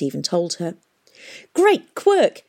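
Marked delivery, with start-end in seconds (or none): 1.5-2.4 high, loud outburst; sudden shout. A narrator's reading. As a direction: burst out with it all at once. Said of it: "he shouted suddenly".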